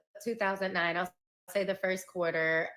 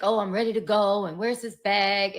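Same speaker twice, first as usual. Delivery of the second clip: retold yell; 6 dB louder than usual. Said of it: "he's yelling in the house".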